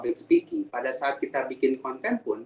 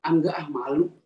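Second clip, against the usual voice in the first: mock reluctant excuses, a little higher; embarrassed refusal; 3 semitones higher than usual. Teacher imitating people afraid of being laughed at, embarrassed refusal. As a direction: act out someone shying away from speaking. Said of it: "takut diketawain".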